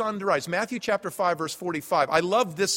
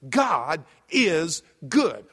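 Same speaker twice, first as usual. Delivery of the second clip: slow emphatic reply; 5 dB louder, much slower than usual. Retold or imitated. Friend's drawn-out answer.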